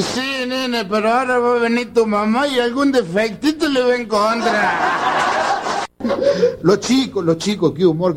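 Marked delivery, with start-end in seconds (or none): 0.0-5.8 slow, mildly slurred, amused; drunk father's reply. Acted. Father warning his son about mom, slow and amused. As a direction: answer like a sly drunk dad. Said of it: "le dice".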